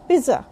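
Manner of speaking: pizza with a plain z, PEE-za; wrong pronunciation. Shown as a demonstration. Teacher rejecting the common pizza, PEE-za. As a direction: drop the t sound from pizza. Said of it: "It's not".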